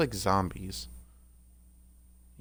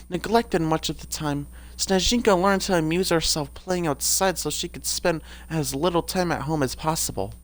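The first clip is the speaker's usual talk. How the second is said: Snezhinka. Acted. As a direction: read it in a slightly raised character voice. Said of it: "I haven't really done Snezhinka's voice".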